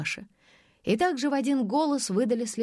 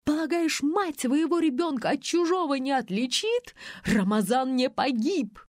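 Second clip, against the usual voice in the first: shouting; 6 semitones higher than usual. A narrator's reading. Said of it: "крича".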